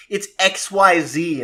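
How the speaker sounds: "X Y Z" said slowly as three separate letters; letters spelled out. Retold or imitated. Host quoting schoolkids arguing over a card name, "X Y Z" letter by letter. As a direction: spell out "X Y Z", drawn out. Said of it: "half the kids at the elementary school".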